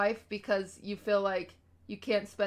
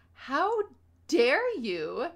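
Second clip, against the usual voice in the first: mock outrage; 5 semitones higher, 7 dB louder, much slower than usual. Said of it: "And I'm like".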